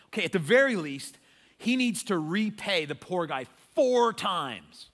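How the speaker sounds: emphatic, mildly outraged ruling; retold indignation. David passing judgment on the rich guy, indignant. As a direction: lay down the penalty, long on the last words. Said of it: "venting and raging and screaming and spitting".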